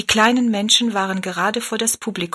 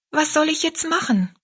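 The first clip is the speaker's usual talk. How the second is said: put-on little girl voice; 9 semitones higher than usual. Rosalie's voice, child.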